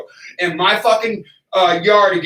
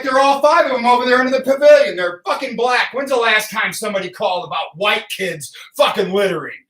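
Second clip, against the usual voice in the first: retold outraged rant; 5 semitones higher than usual. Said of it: "I was like".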